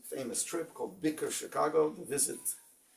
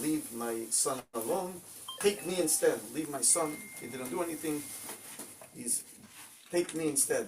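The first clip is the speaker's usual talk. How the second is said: mildly raised, higher-pitched mock outcry; retold desperate pleading; 3 semitones higher than usual. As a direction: imitate a mother pleading, without a full scream. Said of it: "she started crying and screaming at them".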